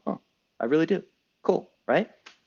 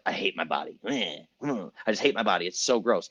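mopey mother; 5 semitones lower, 4 dB quieter than usual. Retold or imitated. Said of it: "And you're like".

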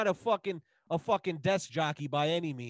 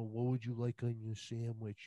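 soft, lower voice, imitating a polite cashier; hushed mock server asking nicely; gently imitated quiet question; 6 semitones lower, 6 dB quieter than usual. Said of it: "she's talking quiet".

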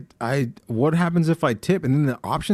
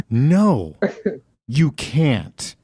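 imitating a disgusted drive-thru worker; mock disdain, each part set apart; disgusted refusal; much slower than usual. Worker refusing a customer ketchup, deliberate mock disgust. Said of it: "complete disgust".

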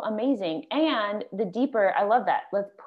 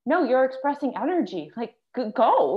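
higher-pitched, eager urging; encouraging coach; 4 semitones higher than usual. Retold or imitated. Breath coach to an apologetic yawner, eager encouragement. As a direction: cheer them on, lifting the voice.

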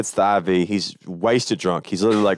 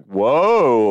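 surprised; 3 semitones higher, 5 dB louder than usual. Retold or imitated. New Yorkers react to accent.

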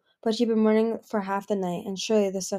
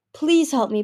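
higher, louder plea; begging; 6 semitones higher, 6 dB louder than usual. Acted. Palm begging her sister for help, higher. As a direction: beg for help. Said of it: "Palm begged".

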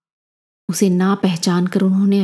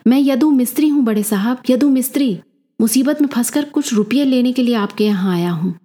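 higher-pitched, insistent plea; narrated character insisting on who he is; emphatic insistence; 5 semitones higher than usual. A narrator's reading. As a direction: press the point, pitch lifted. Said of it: "जोर देकर बोल उठा यदु".

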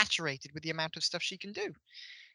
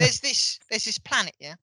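imitated accent of a TV actor, slightly raised; Bradley Walsh accent; 3 semitones higher, 4 dB louder than usual. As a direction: put on a TV actor's accent, tagging "yeah?". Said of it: "I don't know why I'm doing this accent".

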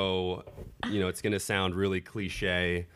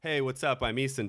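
American voice; 7 semitones higher than usual. Retold or imitated. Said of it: "go back and forth".

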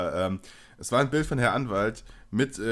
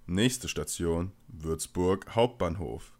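slow, lower station announcement; train announcer; 6 semitones lower, much slower than usual. Shown as a demonstration. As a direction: read it like a Deutsche Bahn PA. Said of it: "die Deutsche Bahn-Ansage von einem Bahnhof".

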